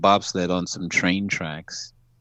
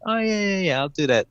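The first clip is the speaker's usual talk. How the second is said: dismissive yes; 11 semitones higher, faster than usual. Retold or imitated. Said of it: "And I was like".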